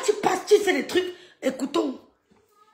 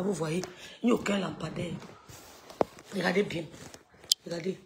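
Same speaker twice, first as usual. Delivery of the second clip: a lightly voiced, softer and lower parody of a cosmetics video; softly mocking a rival's morning skincare clip; mock beauty ad; 3 semitones lower, 3 dB quieter than usual. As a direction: coo like an influencer selling cream. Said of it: "Post publicitaire".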